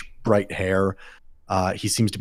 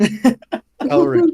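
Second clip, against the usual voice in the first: loud, high call through the door; 6 dB louder than usual. Acted. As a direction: call his name out loud. GM calls out to character.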